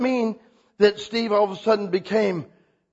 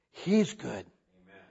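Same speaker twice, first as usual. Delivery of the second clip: quiet amen; 6 semitones lower, 9 dB quieter, slower than usual. Real, not acted. Soft closing affirmation.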